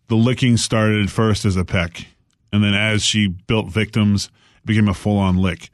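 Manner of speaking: low, measured documentary narrator; Morgan Freeman type narrator. Retold or imitated. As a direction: narrate it like a grave old storyteller. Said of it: "a Morgan Freeman type".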